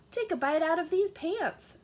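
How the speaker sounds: Father Goat pressing food on his son; pushy father. Acted. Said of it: "said Father Goat".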